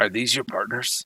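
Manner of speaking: usual speaking voice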